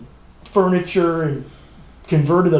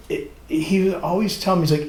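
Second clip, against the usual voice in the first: ordinary talk, nothing marked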